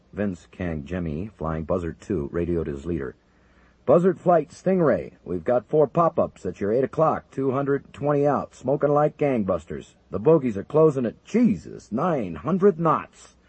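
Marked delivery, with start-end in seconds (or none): 3.8-13.4 urgent radio call. Acted. Controller reports bogies closing.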